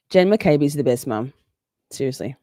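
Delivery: lightly put-on Boston accent, sarcastic praise; a hint of Boston accent, mock sincere. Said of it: "I'll have to get into my Boston accent".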